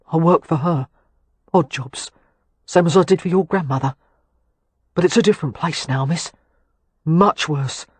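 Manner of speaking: cockney lad glad to see her; South London accent. A narrator's reading. William speaking in his accent.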